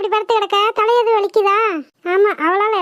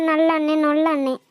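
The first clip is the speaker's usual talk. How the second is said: dismissive parroting, dropping lower; mocking echo; 4 semitones lower than usual. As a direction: throw the praise back with scorn. Scornfully echoes the other girl's praise.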